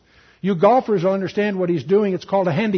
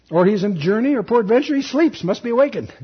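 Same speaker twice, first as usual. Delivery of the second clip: higher-pitched mock speculation; 4 semitones higher than usual. Elijah mocking the priests' silent god, lilting taunt. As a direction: taunt them with a lilting reading. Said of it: "that Elijah mocked them".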